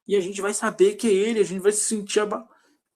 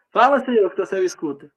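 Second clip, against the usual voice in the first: demonstrated shout; 3 semitones higher, 5 dB louder than usual. Acted. Believer must speak up for God to hear, shouting. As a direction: call out to God so he hears. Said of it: "mas você grita".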